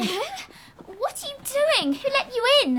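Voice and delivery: startled, high-pitched questioning; alarmed demand. Acted. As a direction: challenge the intruder, pitch jumping up. Girl finds intruder in her room.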